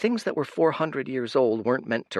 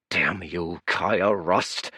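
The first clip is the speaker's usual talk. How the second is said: grumbling curse, barely raised; muttered curse; 4 semitones lower, much slower than usual. Acted. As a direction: curse her name under your breath. Exhausted priest curses the girl.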